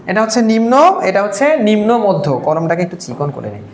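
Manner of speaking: usual speaking voice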